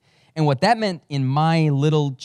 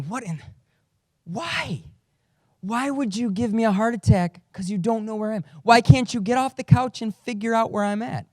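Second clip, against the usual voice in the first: exasperated disbelief; 8 semitones higher than usual. Retold or imitated. Exasperated dad's inner thoughts.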